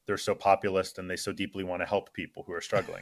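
dry mock sincerity about populist Republicans; deadpan, heavy with irony; sarcastic.

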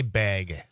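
BAG said with a longer A; drawn-out pronunciation. Shown as a demonstration. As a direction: stretch the vowel in BAG. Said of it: "he said the, the correct pronunciation of bag".

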